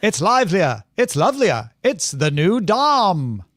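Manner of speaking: put-on twenties radio guy with mid-Atlantic accent; vintage mid-Atlantic car ad read. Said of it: "somewhere from Oxford accent to Mid-Atlantic".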